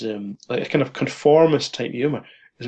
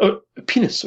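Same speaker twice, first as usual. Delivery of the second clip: mock surprise; 9 semitones higher than usual. Macmillan's shocked reply.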